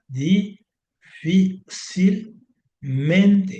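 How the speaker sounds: difícilmente said very slowly, each syllable drawn out; difícilmente stretched out slowly to show where the tilde sits. Shown as a demonstration. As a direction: spell out difícilmente by its syllables, leaning on FÍ. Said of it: "fíjate ya cómo, cómo queda".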